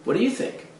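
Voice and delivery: tune rising high on "think"; rising question. Shown as a demonstration. Coach showing how a real question ends, rising on think. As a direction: lift "think" up into a clear question. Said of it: "you can ask the question like this".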